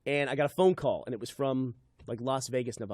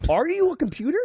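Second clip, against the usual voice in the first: higher, louder, pressing question; exasperated question; 12 semitones higher, 4 dB louder than usual. Retold or imitated. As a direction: demand an answer, fed up. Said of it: "And I go".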